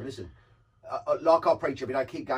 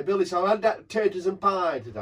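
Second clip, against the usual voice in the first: put-on northern accent; 2 semitones higher than usual. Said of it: "one of my northern pals said".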